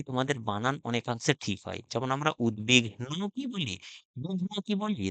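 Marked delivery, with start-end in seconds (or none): 4.2-5.1 বিঘ্ন said much higher and softer, in a mock voice, as /bugno/; mock wrong pronunciation. Shown as a demonstration. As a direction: mimic the wrong way students say বিঘ্ন. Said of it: "না, বলি না।".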